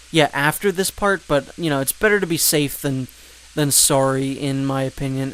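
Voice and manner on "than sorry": "sorry" with a Canadian accent. Real, not acted. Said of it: "I said sorry with a Canadian accent".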